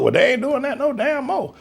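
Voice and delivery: ordinary talk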